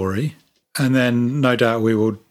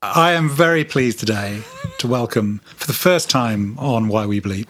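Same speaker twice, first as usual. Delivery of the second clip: podcast host intro. Acted. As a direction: announce it like the show's opening. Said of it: "Just trying to make it sound supernatural".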